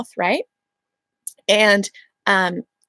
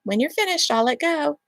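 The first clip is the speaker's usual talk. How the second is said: calm reminder; 5 semitones higher, 4 dB quieter than usual. Shown as a demonstration. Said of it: "every so often say".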